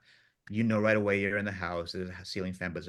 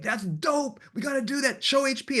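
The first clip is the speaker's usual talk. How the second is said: much higher, hyped-up mock crew voice; imitating thrilled Tom; 4 dB louder than usual. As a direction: play the overjoyed crew guy.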